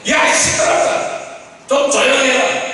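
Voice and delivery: mildly voiced telling-off of a noisy beggar; mock scolding. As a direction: scold lightly, shushing someone. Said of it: "이렇게 막 꾸짖는 거예요".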